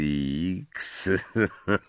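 short mocking laugh; a scornful little laugh; sneering chuckle. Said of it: "szyderczy uśmiech".

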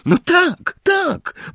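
very high, curt grumble; grumbled. A narrator's reading. Hermiona grumbling agreement with Ron, curt. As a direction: mutter it crossly. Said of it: "burknęła Hermiona".

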